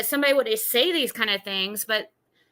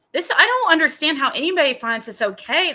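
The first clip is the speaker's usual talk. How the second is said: faster and louder, fed up; exasperated disbelief; 4 semitones higher, 4 dB louder, faster than usual. Real, not acted. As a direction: push it out in angry disbelief. Reacting to hateful messages.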